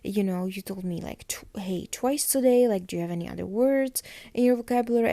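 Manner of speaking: lightly acted exasperated complaint; a retold freak-out, only slightly heightened; mildly freaking out. Caroline complaining to Matt about his greeting, mildly freaking out. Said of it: "So she totally freaks out".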